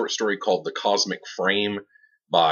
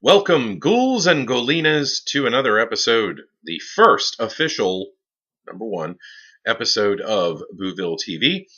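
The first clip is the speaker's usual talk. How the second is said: horror host. Acted. Horror host opening the show.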